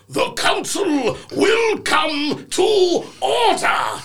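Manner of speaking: slow, pompous mock chairman's voice; grown-up voice. Boy playing council chairman on stage, slow mock grown-up voice. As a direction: drag it out like a self-important councilman. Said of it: "Do a grown-up voice".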